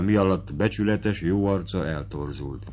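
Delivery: ordinary delivery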